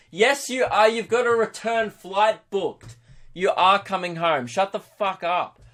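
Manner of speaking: high, emphatic comic rant; exasperated retort. Acted. Comedian answering holiday braggarts online, exasperated rant. Ranting back at Instagram braggarts.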